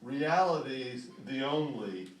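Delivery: measured poem recital with pauses; poetry reading. Acted. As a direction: read it line by line, letting each phrase settle. Poet reads his poem aloud.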